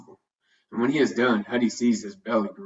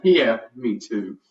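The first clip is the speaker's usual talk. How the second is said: slow, lightly mumbled reply; mumbling dog; 3 dB louder, much slower than usual. A narrator's reading. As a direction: mumble it slowly through a mouthful of food. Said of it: "mumbles back".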